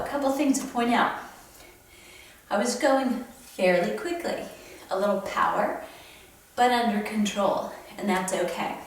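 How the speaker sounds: talking while out of breath. Real, not acted. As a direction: catch your breath between phrases. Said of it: "I'm a little out of breath".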